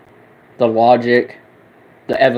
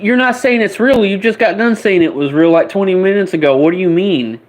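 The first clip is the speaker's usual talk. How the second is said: incredulous disbelief; 7 semitones higher than usual. Retold or imitated. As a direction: throw his words back at him, astonished. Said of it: "I'm like".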